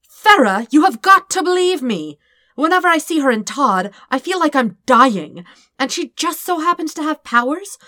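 high, loud, frantic rush of words; panicked pleading. Acted. Dirk begging Farah to believe him, panicked.

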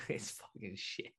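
laughing. Real, not acted. Laughing despair.

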